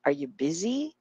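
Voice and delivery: soft "Are you", rising stress on "busy"; weak YOU. Shown as a demonstration. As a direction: skim "you" and land on "busy". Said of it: "Kaya mahina lang siya".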